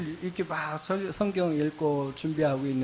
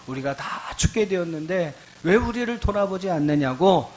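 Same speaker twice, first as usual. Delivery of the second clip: imitating a mild, reproachful plea; reproachful complaint; 4 semitones higher than usual. Disciples to sleeping Jesus in the storm, mildly reproachful. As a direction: voice the disciples' complaint with some urgency. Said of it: "원망조로 이야기를 합니다".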